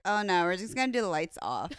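shouted mock brush-off. Judge brushing off a bad cut, mock shout. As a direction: blurt it out as a dismissive judge. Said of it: "it's like".

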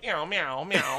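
mock meowing; cat meows. Narrator answering in cat noises, mock meowing. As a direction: meow like a cat. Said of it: "And I'm like".

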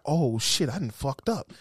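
low, soft realization; quiet dawning regret. Retold or imitated. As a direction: sink into a hushed oh-no.

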